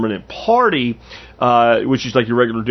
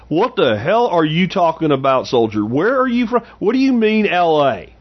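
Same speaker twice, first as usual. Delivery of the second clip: higher, exasperated drill sergeant; 5 semitones higher than usual. Retold or imitated. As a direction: demand it like a confused drill sergeant. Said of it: "man, he goes".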